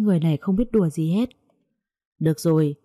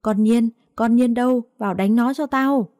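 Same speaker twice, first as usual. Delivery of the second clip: higher, urgent call for help; 5 semitones higher than usual. Acted. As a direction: she shouts for her daughter-in-law to help. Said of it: "mồm méo sẹt kêu cứu".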